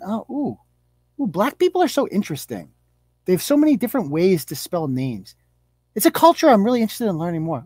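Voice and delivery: breathless fake wonder at spelling names; lightly voiced well-meaning white mom; mock fascinated mom.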